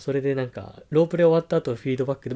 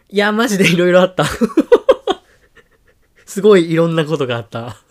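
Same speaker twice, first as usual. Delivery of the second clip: loud and excited, laughing a little; 4 semitones higher, 9 dB louder than usual. Real, not acted. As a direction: burst out with excitement. Excited intro of eventful story.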